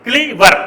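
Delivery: کلیور in two clear beats, کلی-ور; two syllables. Shown as a demonstration. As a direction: show both syllables of کلیور. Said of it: "دوه سیلیبل والی". (کلیور په دوو څرګندو سیلیبلونو)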